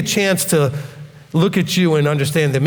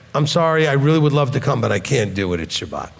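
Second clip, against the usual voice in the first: quiet strength. Shown as a demonstration. Refusing a family member's Shabbat wedding invite, with quiet firm calm. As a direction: turn them down gently but don't budge. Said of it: "with quiet strength".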